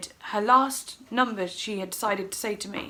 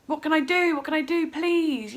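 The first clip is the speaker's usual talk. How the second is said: raised, urgent begging; mock-tearful imploring; crying plea; 5 semitones higher, 3 dB louder than usual. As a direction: re-enact helpless pleading, louder. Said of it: "you know, and I was crying".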